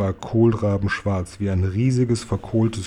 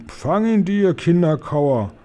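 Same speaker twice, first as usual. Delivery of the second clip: high, swooping giant's call; narrator's high-pitched mock bellow; 7 semitones higher, slower than usual. A narrator's reading. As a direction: send the call up high without much volume. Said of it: "röhrte dazu".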